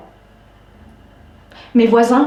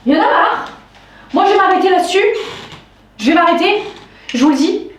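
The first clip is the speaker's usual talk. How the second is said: fed up; 6 semitones higher, faster than usual. Real, not acted. Fed up, announces she will stop.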